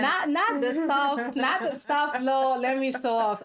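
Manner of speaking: playful mock boast; mock showing off. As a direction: show off teasingly, stretching the words. Mockingly playing a friend showing off.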